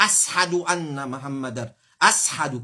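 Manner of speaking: "ashadu" with s instead of sh; mispronounced ashadu. Shown as a demonstration. Teacher giving an example of error, mispronounced "ashadu". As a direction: say "ashadu" faultily as as-hadu. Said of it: "Pas existé même ça".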